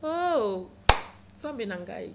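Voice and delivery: laughing in disbelief at the banker. Real, not acted. Laughing at the absurd reply. (rire incrédule)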